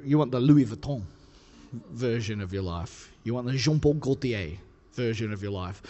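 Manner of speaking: put-on Louis Vuitton and Jean-Paul Gaultier with a light French accent; mock French names. Preacher dropping fancy designer names in a light French accent. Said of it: "say a few fancy names in a, in an accent".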